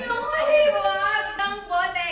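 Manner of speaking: slow, high careful delivery; slow deliberate retake. Acted. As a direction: draw the line out slowly. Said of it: "retake of line after laughing".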